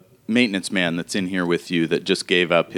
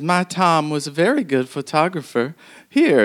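put-on old woman npc; 8 semitones higher than usual.

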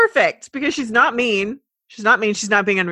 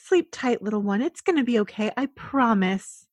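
bedtime story. Acted. Tucking in animals.

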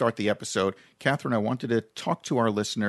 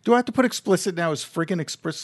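excited mock alarm; 7 semitones higher than usual. Real, not acted. Playful banter, fast high.

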